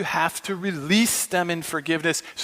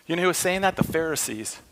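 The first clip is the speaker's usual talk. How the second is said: ordinary talk, nothing marked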